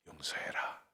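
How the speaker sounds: whispered; hushed divine voice. Retold or imitated. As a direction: breathe the word like a still small voice. God's quiet voice retold. (속삭이듯 조용한 하나님의 음성)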